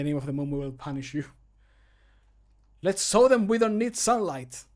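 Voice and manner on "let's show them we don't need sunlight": high, loud heroic game line; battle cry. Acted. Game character starting a battle in a cave, rallying cry. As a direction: call it out boldly, well above the usual pitch. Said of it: "my character is saying".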